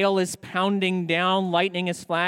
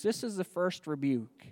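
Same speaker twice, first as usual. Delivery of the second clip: "This is the first rebuke" said softer, weight on "This"; softer emphatic restatement of "This is the first rebuke"; quieter repeat; 7 dB quieter than usual. Shown as a demonstration. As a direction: drop the volume and lean on "This" to drive the point home.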